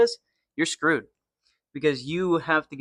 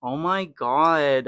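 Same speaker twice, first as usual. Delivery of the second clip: put-on slow, drawn-out Valley girl repeat; 3 dB louder, slower than usual. Shown as a demonstration. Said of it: "I sounded like a Valley girl or like a Kardashian".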